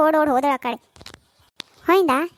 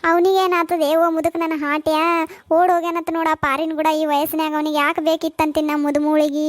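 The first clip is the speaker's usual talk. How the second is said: tearful wail. Acted. Mother-in-law curses eloped husband, crying. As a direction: wail about the runaway husband, slowing into crying. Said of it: "ಇವ್ರು ನೋಡ್ರಿ ಇಲ್ಲಿ ಹ್ಯಾಂಗ್ ಅಳ್ಕೋತ್ ಕೂತಾರ".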